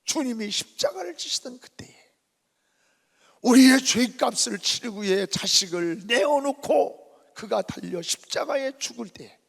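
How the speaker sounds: ordinary talk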